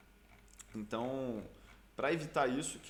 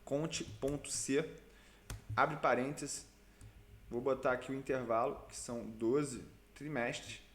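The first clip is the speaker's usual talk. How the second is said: dictating. Shown as a demonstration. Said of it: "Eu vou ensinar como é que a gente faz isso aqui pelo Excel".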